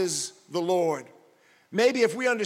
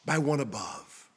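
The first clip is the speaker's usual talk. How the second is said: higher and louder, soaring hope; first voice returns; 4 semitones higher, 7 dB louder than usual. Acted. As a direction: lift it up like a hymn of promise. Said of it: "And then the voice returns".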